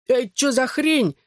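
high, slow pained howl. A narrator's reading. Guy howls at narrator after punch. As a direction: cry out, struck in the face. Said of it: "взвыл он".

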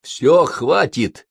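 slow, firm cutting her off; curt cutoff. Acted. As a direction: shut her down bluntly. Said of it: "бесцеремонно оборвал её".

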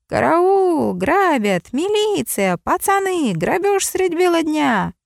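high, shrill cries for help; frantic yelling. A narrator's reading. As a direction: yell for help in panic. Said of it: "раздался истошный вопль".

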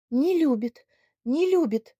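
high, loud tearful lament; tearful repeating. Acted. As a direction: wail it over and over. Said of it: "повторяла Надя". (слёзно повторяя)

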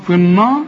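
النار with a thick, backed n; wrong heavy n. Shown as a demonstration. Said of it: "خطأ". (تفخيم خاطئ للنون في النار)

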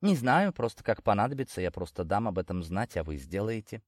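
hushed, sly dealer's voice; soft-spoken leprechaun. Acted. Leprechaun answers quietly.

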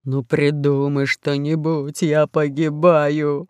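slow low pirate voice. Acted. Fat pirate pinned down.

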